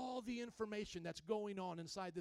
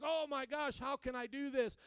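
a touch of higher-pitched panic; mildly overwhelmed; 4 semitones higher, 3 dB louder than usual. Retold or imitated. Bruce swamped by fast-arriving prayer requests, mildly overwhelmed. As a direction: imitate someone swamped, lightly acted.

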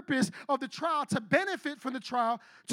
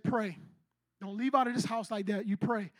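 low-key, slightly lowered command; Holy Spirit speaking; 3 semitones lower than usual. Retold or imitated. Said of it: "the Holy Spirit said".

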